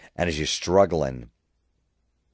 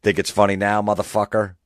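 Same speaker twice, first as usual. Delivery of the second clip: snarl; 4 semitones higher, 5 dB louder than usual. Retold or imitated. Taunting choking friend.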